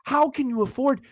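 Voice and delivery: incredulous self-quote. Retold or imitated. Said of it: "I'm like".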